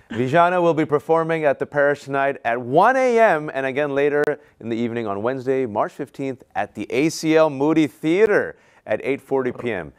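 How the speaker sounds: lifted, announcer-style plug; event announcer. Real, not acted. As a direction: read out the show details like a host. Host reads out show announcement.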